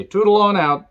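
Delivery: toodle on out sung high and bright; chirpy fake-friendly send-off; mock cheery. Mocking viewers who agree with Riker, sing-song goodbye.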